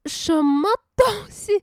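loud, high and slow, baffled; a big, slow, baffled cry; what on earth, said loud and drawn out; incredulous outburst. Real, not acted. Incredulous at her own dream.

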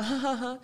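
mock awkward ha ha ha; awkward laugh. Imitating a classmate's awkward fake laugh. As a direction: imitate a forced little laugh. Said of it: "很尬笑一声".

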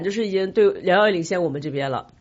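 ordinary delivery

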